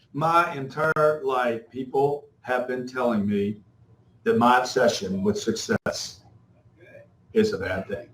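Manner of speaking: slow, low, droning English narrator voice; imitating a stuffy English narrator, slow and low; mock English accent. Mocking the narrator who read his book, in a plodding English accent. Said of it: "in some English accent".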